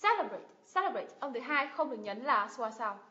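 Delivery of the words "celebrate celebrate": "Celebrate" high on CE; stress on first syllable. Shown as a demonstration. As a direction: punch the opening of "Celebrate". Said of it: "Nhấn vào tiếp thứ nhất".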